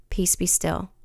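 soft, gentle and unhurried; still, calming voice. Acted. God speaking peace to a turbulent heart, softly calming. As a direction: hush a troubled heart tenderly. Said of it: "with his still, calming, loving voice".

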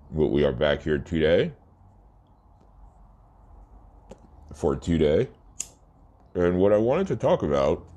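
talking through a mouthful; words around a bite of food; mouth full. Real, not acted. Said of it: "Talking with my mouth full".

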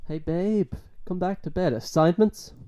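high, coaxing come-to-bed voice; seductive partner voice. Pretend. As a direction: call him back to bed. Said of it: "partner voiced in skit".

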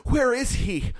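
high, drawn-out mock shout; frantic girlfriend. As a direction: imitate a woman calling out a question. Acts out frantic girlfriend asking.

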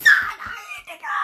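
high loud cry of no; frustrated shout. Real, not acted. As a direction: shriek the no. Conceding goal.

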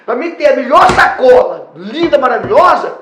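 loud, laughing mock demand for the best wrapping; demanding customer. Owner mocking a customer who wants luxury wrapping, loud mock demand. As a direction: ham up a pushy customer.

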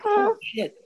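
sudden high-pitched oh shit; startled oh shit. Retold or imitated. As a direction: yelp it out in a jump of alarm. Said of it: "And I'm like".

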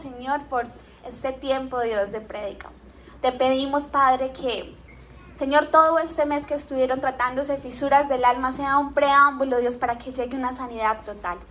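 hushed heartfelt prayer. Real, not acted. Opening prayer in sermon.

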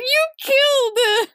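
very high, stretched-out fake sob; hammed-up hysterical child accusation; mock crying wail. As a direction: wail it slowly like a crying kid. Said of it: "And he's crying".

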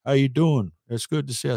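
lightly voiced genial American golfer; Arnold Palmer. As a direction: greet someone in passing, lightly imitating. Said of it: "Arnie'd come in and he'd walk past and say".

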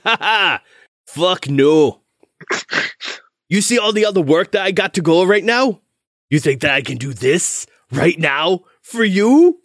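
high, incredulous, indignant blacksmith; scornful refusal. Acted. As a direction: scoff and fire off indignant questions. Overworked smith scornfully refuses job.

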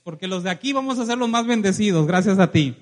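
loud preaching, building to a shout; rousing proclamation. Real, not acted. Preacher declares his people blessed, rousing shout. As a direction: proclaim it loudly to the whole congregation.

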